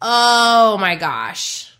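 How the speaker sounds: long drawn-out wonder; awed exclamation. Real, not acted. Coach marvelling at her friend's wisdom, awed. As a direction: stretch it out slowly in amazement.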